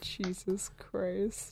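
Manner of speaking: whispered exasperation. Real, not acted. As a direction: breathe it out under your breath. Exasperated aside.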